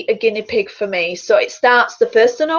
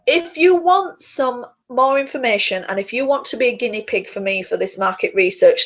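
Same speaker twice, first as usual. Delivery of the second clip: ordinary talk, nothing marked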